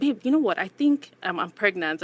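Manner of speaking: playfully spring the news, then settle down; joking announcement. Retold or imitated. Wife kidding her husband about being pregnant, playful. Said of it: "I was just joking with my husband".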